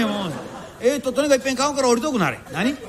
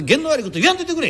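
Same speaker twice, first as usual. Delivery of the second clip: quick, higher quoted protest; customer's retort; 4 semitones higher, faster than usual. Retold or imitated. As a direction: fire back the superstitious plea fast. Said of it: "言わんといてくれちゅうたかて".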